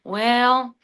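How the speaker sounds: a hint of a weary coach fretting about getting fired; Sam Pittman impression. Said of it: "Sam Pittman going in his office and going".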